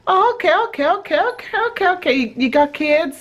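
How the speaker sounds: high, excited man repeating okay; eager guy voice. Retold or imitated. Retelling the mechanic guy, high eager voice.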